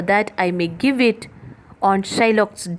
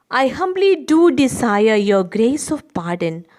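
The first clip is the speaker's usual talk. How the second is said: raised, loud humble plea; Portia's polite refusal; 4 semitones higher, 7 dB louder than usual. Acted. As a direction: ask pardon with a lift. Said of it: "To this Portia says".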